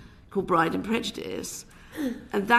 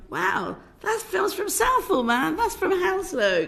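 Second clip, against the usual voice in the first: much higher, wide-eyed impressed voice; mock proud cheer; 10 semitones higher, 4 dB louder than usual. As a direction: play the whole nation gushing over a local film. Imagined proud nation cheering local films.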